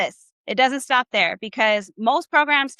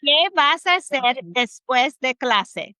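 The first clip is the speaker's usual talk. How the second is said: slow model phrase; slower than usual. Shown as a demonstration. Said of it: "this is how it sounds".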